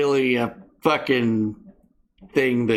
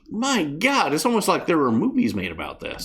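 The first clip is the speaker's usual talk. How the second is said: sarcastic; 3 semitones higher than usual. Real, not acted. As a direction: pitch it up in mock disbelief. Sarcastic reaction to obvious news.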